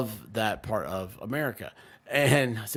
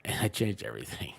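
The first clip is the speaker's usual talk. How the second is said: laughing whisper; 3 semitones lower, 3 dB quieter than usual. Real, not acted. Laughing about the new rug.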